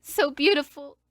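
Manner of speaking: slow, high, mock-weepy; half-hammed sobby excuse, drawn out; teary apology. Quoting her teary apology to Sal.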